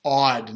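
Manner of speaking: "Awed" said like "aww-d", not like "odd"; pronunciation of awed. Shown as a demonstration. Dad explaining "Awed" to his son, not "odd". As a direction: stretch "Awed" with an open aww sound. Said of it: "not odd like weird".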